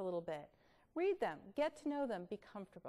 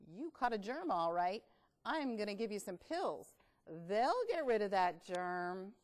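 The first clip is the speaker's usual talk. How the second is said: bug doctor voice; 3 semitones lower than usual. Acted. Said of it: "said the bug doctor".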